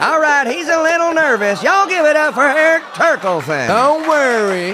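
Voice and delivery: hammed-up emcee; hype host. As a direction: pump up the crowd. Hyped host intro.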